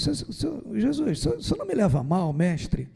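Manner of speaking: a hint of a timid disciple addressing his master; respectful plea. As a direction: ask Jesus gently, as if not to offend him. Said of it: "respeitosamente falar assim com Jesus".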